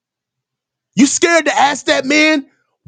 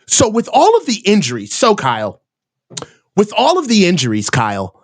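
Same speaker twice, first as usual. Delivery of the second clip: mock reporter; 6 semitones lower than usual. Mocking reporters' questions.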